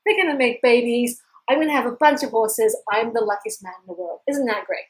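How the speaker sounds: gushing old man, acted loudly; rapt delight. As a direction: gush over your amazing luck. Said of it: "and he's wrapped".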